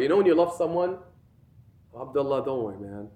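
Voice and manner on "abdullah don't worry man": lower, softer aside to a friend; casual reassurance. Acted. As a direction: drop low and reassure a buddy. Reassuring a friend one loves.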